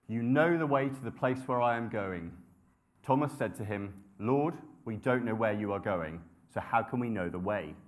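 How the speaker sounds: measured, reverent Bible reading; scripture reading. Acted. Preacher reading John to the congregation, reverent.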